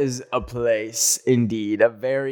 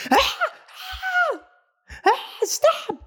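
imitated screams. Imitating screams heard down street.

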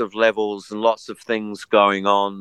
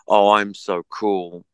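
mock cool pose; slower than usual. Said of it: "really stupid act of".

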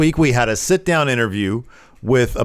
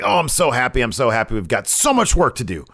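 mildly hammed-up delight; very happy, imitated; 2 semitones higher, faster than usual. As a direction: gush a little, as if imitating someone overjoyed. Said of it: "He's very happy".

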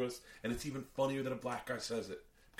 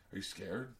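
low, quiet challenge; low-key challenge; 3 semitones lower, 7 dB quieter, slower than usual. Retold or imitated. Smaller guy at the car door, quiet challenge. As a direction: put the question low and softly. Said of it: "comes up to my ... is like".

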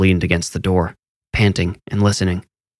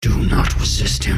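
eerie distant command; inner demon voice. A narrator's reading. Demon voice warns Harold, eerie distant command. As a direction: press into his mind. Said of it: "the other voice filled Harold's head".

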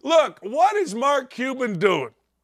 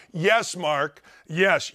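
normal talking voice

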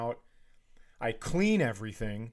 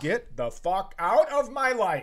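disgusted outburst; 6 semitones higher, 4 dB louder than usual. Pretend. Disgusted outburst at hotel mess.

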